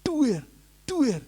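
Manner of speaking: high, falling "duer", spaced apart; imitated head banging. Pastor describes head hitting wall, imitated banging. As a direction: imitate slow, repeated thuds. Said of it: "Kepalanya dijebles-jebles nih tembok".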